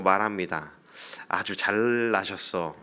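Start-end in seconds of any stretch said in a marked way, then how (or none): 1.3-2.8 lightly acted sarcasm, stretching the first words; sarcastic sneer. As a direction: needle them with understated mockery. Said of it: "비아냥거리는 듯한 말로".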